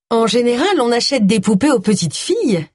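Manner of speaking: put-on lightly colour it with a Scottish accent; slight Scottish accent. A narrator's reading. Shopkeeper advising a customer, slight Scottish accent. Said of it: "avec son léger accent écossais".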